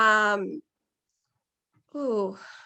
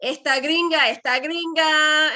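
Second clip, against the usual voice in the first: quoting playfully; 4 semitones higher, 4 dB louder than usual. Retold or imitated. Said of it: "that reading was like".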